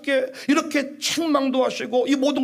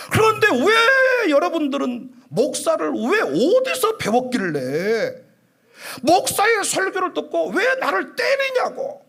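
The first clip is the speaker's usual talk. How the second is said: preaching rebuke; 3 semitones higher than usual. Real, not acted. Preacher scolding congregation.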